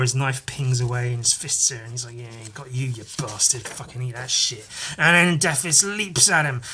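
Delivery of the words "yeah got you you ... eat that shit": low, muted gloating; growing less hushed, a quiet hero's taunt; mock tough taunt.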